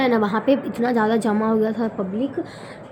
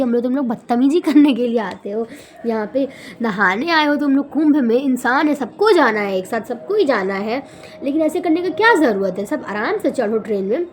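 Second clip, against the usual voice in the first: angry scolding retold. Retelling scolding the crowd pushing onto the train, mildly angry. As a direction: scold the shoving crowd with restrained anger. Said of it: "इतना गुस्सा आया कि हम उन लोग को गाली दी".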